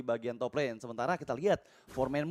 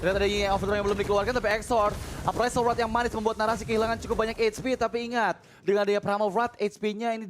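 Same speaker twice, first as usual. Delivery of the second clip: excited shout-casting; 5 semitones higher, 4 dB louder than usual. Acted. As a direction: yell the pick-off to the crowd. Hype call on pick off.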